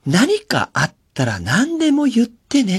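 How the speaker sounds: high, slow, sugary call for all to hear; showy sweet boss. Retold or imitated. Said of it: "すんげえ大きな声で言ってんのね". (甲高くゆっくり、周りに聞かせる優しい声)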